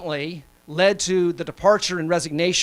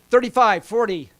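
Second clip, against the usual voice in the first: calling out bids, louder, like an auctioneer; 3 semitones higher, 3 dB louder than usual. Pretend. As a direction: rattle off the numbers like an auction. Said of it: "I feel like an auctioneer".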